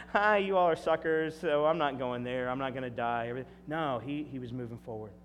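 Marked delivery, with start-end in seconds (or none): 0.1-3.3 mock trickster. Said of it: "He didn't go".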